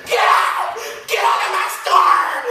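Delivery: imitating a furious shopkeeper, loud and high; mock angry shout. Enraged shopkeeper throwing a sailor out, hammed-up yell. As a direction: bark him out of the store. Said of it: "threw it on the ground and said".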